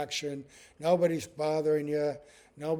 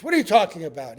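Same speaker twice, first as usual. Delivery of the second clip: mock anger; 6 dB louder, much faster than usual. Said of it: "He's angry".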